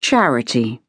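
low, musing gentleman; slowly. Acted. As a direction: say it slowly, weighing the word. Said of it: "he said slowly".

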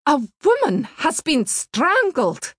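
vehement. A narrator's reading. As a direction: blurt it out, shaken and urgent. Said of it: "turned to him with vehemence".

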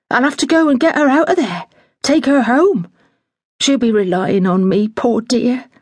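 lightly voiced flustered housekeeper; a hint of a fussing older woman in a fluster; fretful housekeeper. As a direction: housekeeper resolving to fetch her mother, flustered.

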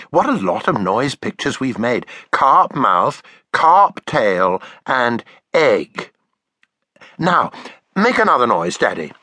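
put-on child voice. Taffy voiced.

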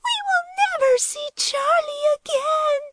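very high, lost despair. Acted. Lily mourns losing Charlie, very high despair. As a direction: let it break in hopeless grief.

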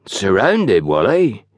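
mildly feeble, puzzled echo. A narrator's reading. Station master echoes his porter's news, feeble. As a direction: repeat it weakly, not taking it in. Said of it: "Mister Maycock reiterated feebly".

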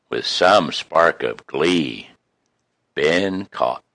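tender rhyming recital; poem recitation. Acted.

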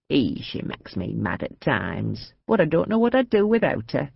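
grumbling with affection; fond old lady. Acted. Old lady on her sister.

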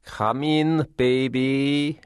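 high, inviting hostess voice; domineering, teasing invitation; hostess calling out. A narrator's reading. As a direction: call him in, high and drawn out. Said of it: "cried Olga".

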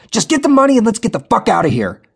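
high, loud urgent yell. A narrator's reading. Darren yelling at Jenny to flee the bank, urgent shout. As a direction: yell to get out now. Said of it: "Darren yelled".

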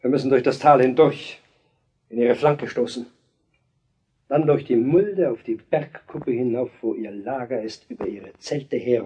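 commanding plan. Acted. King plans battle forcefully.

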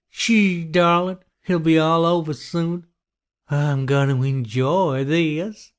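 high, menacing killer's hush; creepy hushing killer. A narrator's reading. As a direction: hush the victim while relishing it. Killer hushes his sobbing victim.

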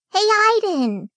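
eager little brother's high-pitched call; excited calling out. A narrator's reading. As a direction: call to your big brother from a distance.

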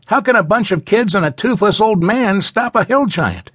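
put-on high, doubtful child's voice; skeptical boy. A narrator's reading. Boy scoffing at the old man's plan, high and doubtful.

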